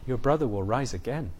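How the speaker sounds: soft and tender reassurance. Acted. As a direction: comfort her gently, just above a hush. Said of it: "So he says to her tenderly".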